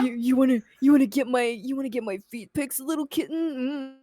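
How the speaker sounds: creepy voice through laughter; laughing creepy voice. Retold or imitated. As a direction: giggle through a creepy line. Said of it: "You wanna give me feet pics".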